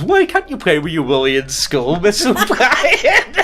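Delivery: laughing through quote. Retold or imitated. Retold cheeky pupil quote.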